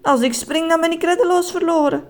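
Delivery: high, whining lament; childish wailing. Acted. Man hanging helpless in a tunnel, wailing like a child. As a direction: wail like a small child. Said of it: "Hij jammerde als een klein kind".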